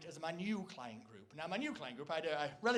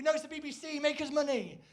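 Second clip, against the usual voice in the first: higher, brusque mock boss; BBC bosses; 8 semitones higher, 6 dB louder than usual. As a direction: wave off the complaint greedily. BBC bosses answer Attenborough.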